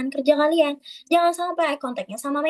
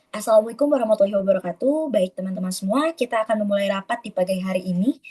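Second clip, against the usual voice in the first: formal greeting with a lively, varied melody; 3 semitones lower than usual. Shown as a demonstration. Teacher shows a well-toned formal meeting opening. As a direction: open the meeting with a pleasant rise and fall. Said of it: "Enak kan kedengerannya?".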